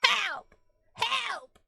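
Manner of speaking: high, loud hammed-up help; mock cry for help. Playing scared of the disembodied voice, crying for help. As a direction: shriek for help, hamming it up.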